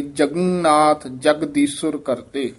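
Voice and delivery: ਜਗਨਨਾਥ and ਜਗਦੀਸ਼ਵਰ pronounced tightly; teacher's firm model of ਜਗਨਨਾਥ ਜਗਦੀਸ਼ਵਰ; tight articulation. Shown as a demonstration. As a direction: press both ਜਗਨਨਾਥ and ਜਗਦੀਸ਼ਵਰ firmly. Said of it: "ਦੋਵੇਂ ਪਦ ਜਿਹੜੇ ਨੇ ਕੱਸ ਕੇ".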